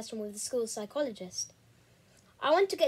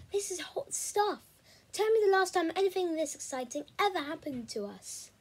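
excited friend; 6 semitones higher than usual. Acted. Charlie excited about mystery.

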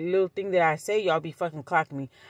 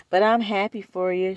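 imitated congratulations; 2 semitones higher, 4 dB louder than usual. Retold cousin, tacked on after laugh.

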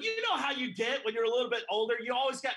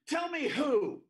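higher, loud demanding challenge; 6 semitones higher, 3 dB louder, slower than usual. Retold or imitated. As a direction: throw down the demand. Sister's challenge shouted.

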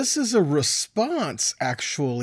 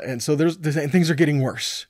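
normal talking voice

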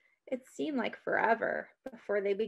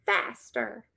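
raised call to the horse, higher; shouted; 5 semitones higher, slower than usual. A narrator's reading. Girl on horseback urging her horse on, shouting. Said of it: "and then shouted".

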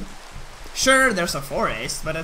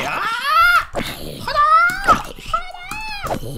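shrill mock hello; high shouted greeting; 4 dB louder, much slower than usual. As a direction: yell it out high and loud. Enemy appears, high shouts.

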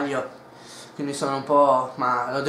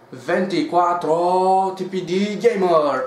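title announcement; 2 semitones higher, 6 dB louder, slower than usual. Acted.

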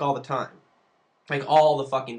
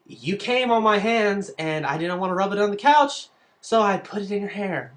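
put-on girl confessing; 3 semitones higher than usual. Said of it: "She said".

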